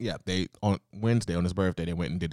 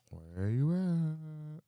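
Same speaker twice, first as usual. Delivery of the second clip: mock taunt; 9 semitones higher, 4 dB quieter, much slower than usual. Teasing friend at finish line.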